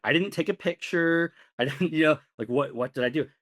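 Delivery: high-pitched, baffled innocence; mock panicked protest. His panicked inner protest, retold.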